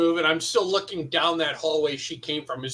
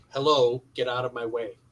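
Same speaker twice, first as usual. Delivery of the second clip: quietly whispered at a lower pitch; 5 semitones lower than usual. As the dwarf, speaking to her so she comes in off to the side, whispering. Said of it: "I kind of whisper for her".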